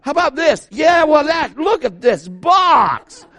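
put-on high, loud, slow kid's shout of delight; excited little kid. Pastor imitating his four-year-old son thrilled by a box. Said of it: "He's, like, four and goes".

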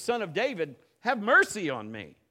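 loud plea rising at the end; calling out. Retold or imitated. Blind beggar shouts to Jesus over the crowd, loud plea. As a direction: cry out for mercy over the crowd.

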